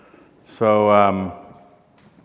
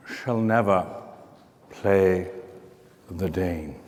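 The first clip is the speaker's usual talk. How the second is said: a touch of tragic stage grandeur, fading softer; Uncle Monty; 3 dB quieter than usual. Acted. Opening his talk with a borrowed film monologue, theatrical. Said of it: "I plagiarized that from Uncle Monty".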